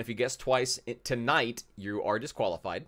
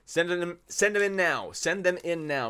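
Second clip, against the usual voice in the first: urging call; 5 semitones higher than usual. Real, not acted. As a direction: hurry the viewers along. Urging viewers to send.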